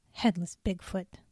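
a mild self-mocking scoff; mock his own wild idea, understated. The speaker alone mocks his own theory, mild scoff. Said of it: "he scoffed at himself".

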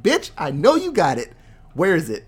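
loud, comic confrontation; mock angry accusation. Vader demanding the plans from Leia, loud mock anger. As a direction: punch it like an exasperated interrogator.

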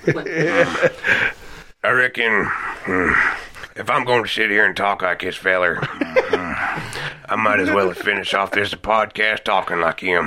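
lightly voiced slow Southern drawl with grunts; Sling Blade voice. Podcaster imitating a Sling Blade character for friends. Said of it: "Billy Bob Thornton movie, Sling Blade".

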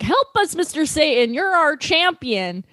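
high pleading cheer from the crowd. Retold or imitated. Crowd begging Mister Satan for rescue, high pleading cheer. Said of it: "They're like".

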